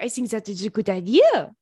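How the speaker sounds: thick mock French accent. French date answering her suggestion, imitated French accent. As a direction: play the agreeable Frenchman, heavy French accent. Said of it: "French people actually talk like that".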